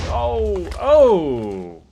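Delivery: sudden high yell of shock; startled yelp. Real, not acted. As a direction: cry out as the blast hits. Creeper blast takes six hearts.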